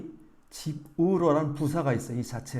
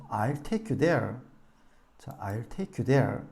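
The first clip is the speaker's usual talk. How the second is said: I'll take you there, slow, take and there long; slow model read; stress on take and there; much slower than usual. Shown as a demonstration. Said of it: "there를 쓰면 되겠죠".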